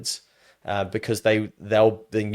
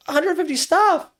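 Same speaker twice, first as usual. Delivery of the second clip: much higher, slow disbelieving repeat; incredulous echo; 3 dB louder, slower than usual. Retold or imitated. Repeating the American's staff count, stunned and disbelieving. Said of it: "I'm like".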